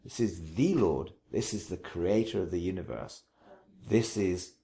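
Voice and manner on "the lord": "the" said as "thee", meaning the one and only; emphatic "thee" for "the"; stress on THE. Shown as a demonstration. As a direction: say "the" as a weighty "thee" before "Lord". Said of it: "this is not just any Lord".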